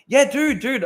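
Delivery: sudden high, loud "Yeah, dude"; excited yeah. Real, not acted. Streamer excited recalling a viral post, high and loud. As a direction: burst out with delight.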